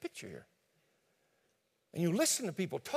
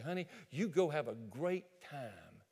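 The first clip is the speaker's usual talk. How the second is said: sweet wife; 3 semitones lower than usual. Acted. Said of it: "walk up to the pickup truck and say".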